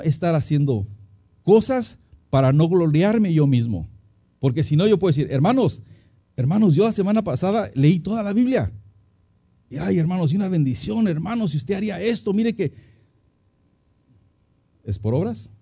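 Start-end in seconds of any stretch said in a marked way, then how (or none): 5.3-12.7 higher-pitched, lightly acted bragging; mock boasting. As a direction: show off piously to the congregation, tongue in cheek. Mimics boasting about his works. (presumiendo en broma, con voz más aguda)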